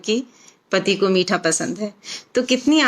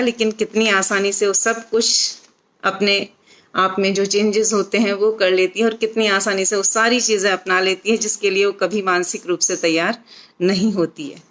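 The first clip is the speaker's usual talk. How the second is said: ordinary talk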